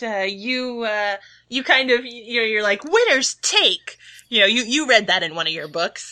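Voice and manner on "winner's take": slow, high-pitched proclamation; drawn-out, emphatic motto delivery; assertive slogan. Acted. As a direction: declare it with mock assertiveness. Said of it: "try to say that with some assertiveness".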